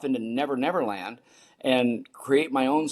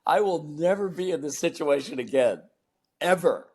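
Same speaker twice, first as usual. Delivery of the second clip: higher-pitched, indignant retort; exasperated disbelief; 5 semitones higher than usual. Retold or imitated. Son reacting to dad preferring another speaker, exasperated disbelief. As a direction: act out being fed up and incredulous. Retelling his reaction to dad's verdict.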